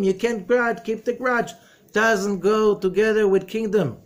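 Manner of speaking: loud, rising sermon voice, pushing hard; booming pulpit delivery; fiery preaching. Acted. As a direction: preach it with full force to the room. Preaching at full force.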